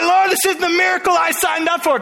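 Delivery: high, teary whine of a disappointed believer; half-cry the complaint to God; mock crying complaint.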